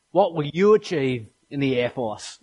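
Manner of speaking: lightly imitated Air Force ad announcer; a hint of an earthy ad voice, measured; earthy Aussie voice-over. Preacher quoting the Air Force ad's tagline, earthy Aussie announcer. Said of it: "this earthy Aussie accent says".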